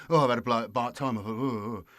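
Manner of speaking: flippant imitation of someone's sad tale; lightly mock a hard-luck story; hammed-up woe with trailing oh-oh-ohs; blasé mock lament. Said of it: "I'm being a bit blasé with it".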